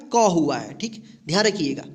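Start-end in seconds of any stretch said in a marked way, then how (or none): 0.1-0.7 क said low. Shown as a demonstration. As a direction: stress the क sound. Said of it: "सी का उच्चारण क्या हुआ है?". (क की आवाज़ पर ज़ोर)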